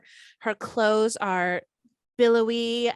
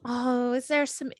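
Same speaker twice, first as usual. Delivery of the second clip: put-on Irish accent; 4 dB quieter than usual. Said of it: "sounding like Aisling Bea".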